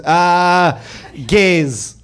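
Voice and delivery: hesitant, uncomfortable father, lightly imitated; awkward dad. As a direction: play an awkward dad dismissing it. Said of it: "My dad awkwardly looked at the television".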